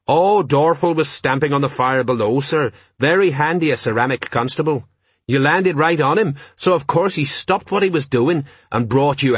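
lightly voiced sergeant reporting keenly to the boss; eager sergeant.

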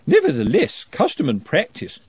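stiff, proper housekeeper; prim housekeeper. A narrator's reading. Housekeeper voiced in a story.

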